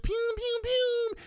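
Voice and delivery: very high pew pew; very high mock gun sounds. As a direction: squeak out toy gunfire.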